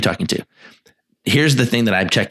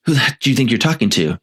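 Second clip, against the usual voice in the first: indignant challenge; 3 semitones higher than usual. Shown as a demonstration. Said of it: "do you know what you just said".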